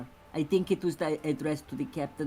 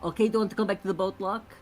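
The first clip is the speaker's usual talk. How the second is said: lightly acted, higher, quick invitation; quick in-character offer, pitched up; Nina inviting Locke; 6 semitones higher, faster than usual. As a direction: ask it in a raised voice, quickly. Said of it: "and say".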